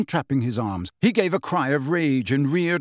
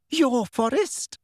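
slow, high, affronted question; indignant official, stretched words; frightened indignation; 10 semitones higher, slower than usual. A narrator's reading. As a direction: repeat it slowly in high-pitched disbelief. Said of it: "not only with fright, but also".

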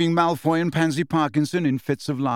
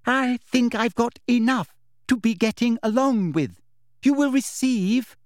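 high, over-enunciated condescension; patronising inspector, word by word; loud, slow voice; 10 semitones higher than usual. A narrator's reading. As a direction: spell it out as if to someone dim. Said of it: "speaking once more in that loud, slow voice".

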